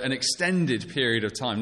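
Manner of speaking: extended leaned on a little, gently; the preacher marks how long the summer holiday is by lightly stressing extended. Shown as a demonstration. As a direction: give extended a deliberate light push. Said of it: "Notice the stress on the word extended".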